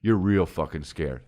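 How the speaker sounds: low, hushed pep talk to himself; inner self-talk. Retold or imitated. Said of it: "in my head, I say".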